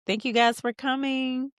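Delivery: high, sing-song retold politeness; party hostess greeting. Molly thanking guests at Diane's party, polite.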